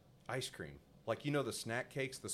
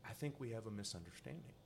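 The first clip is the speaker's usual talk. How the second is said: calm polite; 8 dB quieter than usual. Retold or imitated. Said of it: "trying to zen".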